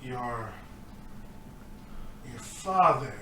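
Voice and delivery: halting, lightly voiced orc; a hint of puzzled, groggy orc; dazed orc. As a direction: grope for the words with long pauses. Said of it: "still dazed".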